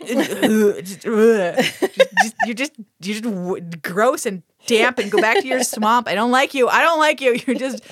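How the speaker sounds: laughing disgust. Retold or imitated. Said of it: "And I was like".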